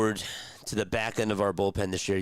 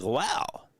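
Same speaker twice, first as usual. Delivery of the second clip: retold amazement, much higher; telling chat how he reacted to seeing the player; impressed wow; 11 semitones higher, slower than usual. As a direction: pitch it up like you're genuinely impressed. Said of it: "and I was like".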